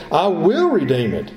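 "I will redeem it" with firm weight on WILL; emphatic statement. Acted. Kinsman answering Boaz's offer, emphatic stress on "will". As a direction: lean on "will" as a definite commitment. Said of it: "It's an emphatic statement. He says".

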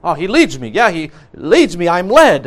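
"leads" and "led" punched with a pitch swell; stress on LEADS. Shown as a demonstration. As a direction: lean hard on "leads" and "led", not on "he". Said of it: "tempted to emphasize the word lead us".

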